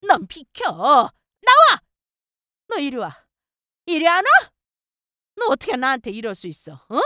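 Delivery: high-pitched angry mother-in-law; yelling in anger. A narrator's reading. Mother-in-law storms in at her, yelling. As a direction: burst out in sharp high commands. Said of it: "저에게 소리를 지르면서 욕을 하시더라고요".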